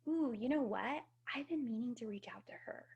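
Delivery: breathy whisper of a sudden idea; hushed inner thought. Retold or imitated. Voicing an inner nudge to herself, in a whisper. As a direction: let the thought slip out as a secret whisper.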